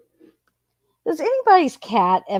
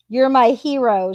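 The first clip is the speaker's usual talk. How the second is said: "You're my hero" repeated louder, "my" leaned on with scorn; mocking repeat; 2 semitones higher, 5 dB louder than usual. Repeating the girlfriend's text to viewers, mocking and scornful. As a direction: throw "You're my hero" back with sarcastic disbelief. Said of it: "she's telling him".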